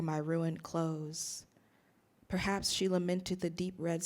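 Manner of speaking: measured, deliberate poem recital; poetry reading. Acted. Poet reciting a blackberrying poem to listeners, measured poetry reading. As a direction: read it as verse, pausing after each phrase.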